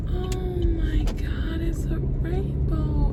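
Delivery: high, slow, stunned wonder; drawn-out high-pitched amazement; awestruck, near tears. Real, not acted. Driver sees a rainbow ahead, awestruck and near tears. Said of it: "I could cry".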